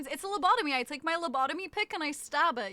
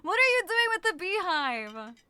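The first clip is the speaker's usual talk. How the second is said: same question pushed louder with emphasis; louder repeat; 4 semitones higher, 4 dB louder than usual. Shown as a demonstration. Streamer repeating a question to chat, insistent and louder. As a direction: make it the insistent second take. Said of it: "repeats it louder".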